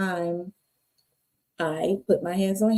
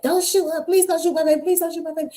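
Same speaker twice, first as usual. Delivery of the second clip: high, begging mother's voice; pleading mother; 10 semitones higher, faster than usual. Retold or imitated. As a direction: beg for your child's life. Mama begging for her daughter.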